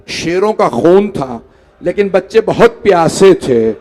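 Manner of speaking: chanted, grieving storyteller's cadence; mourning recitation. Acted. Preacher recites the martyrdom to the gathering, in a mourning chant. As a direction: recite the tragedy to move the mourners.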